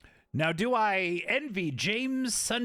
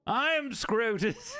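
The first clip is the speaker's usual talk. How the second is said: slow, drawn-out posh introduction; grand self-introduction; 4 semitones higher, slower than usual. Pretend. New character introduces himself slowly and pompously. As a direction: announce yourself slowly like a pompous aristocrat. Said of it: "New character unlocked".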